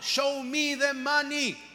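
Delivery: slow, drawn-out movie line in English; Jerry Maguire quote. Retold or imitated. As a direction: quote the film line, stretched out. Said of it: "Jerry Maguire".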